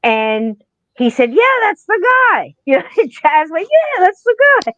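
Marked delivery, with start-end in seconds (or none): 1.3-2.5 mock high-pitched confirmation; high-pitched mimicry. 3.7-4.7 comic squeaky quote, very high; silly high-voiced confirmation; high-pitched mimicry.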